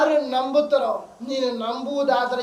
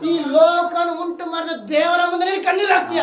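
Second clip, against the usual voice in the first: impassioned sermon at raised pitch; fervent preaching; 3 semitones higher than usual. Real, not acted. Preacher urging believers to weep before God alone, fervent preaching. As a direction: press it urgently on the congregation.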